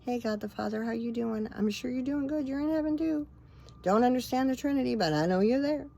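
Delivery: chatting cheerfully up to heaven, pitch climbing; breezy chat with God. Retold or imitated. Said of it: "I just flat out will talk like that to them".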